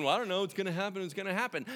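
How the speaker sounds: quick, high mimicry of an excuse; imitated fast, shrugging objection; mock excuse. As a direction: rattle it off dismissively. Mimicking a passive believer.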